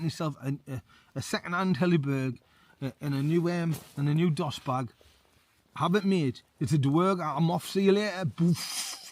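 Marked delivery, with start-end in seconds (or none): 5.8-9.1 louder, hammed-up panic exit; bolting from a pretend dwarf; playful I'm off, louder; mock fleeing.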